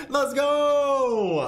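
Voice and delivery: high, drawn-out hype yell; excited high shout; hyped shout. Real, not acted. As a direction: holler it out, stretched and pumped. Hyped call while playing.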